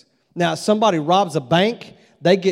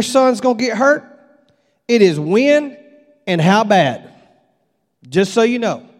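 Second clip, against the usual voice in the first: a touch louder, firm warning from a rodeo coach; stern coach warning; 3 semitones higher, 4 dB louder than usual. Retold or imitated. Bull riding coach warning the mother, firm and a bit louder. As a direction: lay down the hard truth like a coach. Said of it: "he says to my wife".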